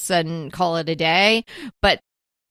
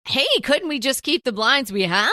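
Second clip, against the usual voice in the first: higher, hopeful asking voice; pleading husband, lightly voiced; husband's voice; 6 semitones higher than usual. Husband asking, acted dialogue.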